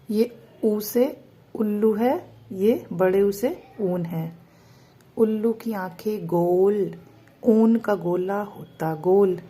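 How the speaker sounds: put-on slow singsong rhyme for kids; reading to children. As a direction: chant the rhyme slowly for a child. Reciting to children.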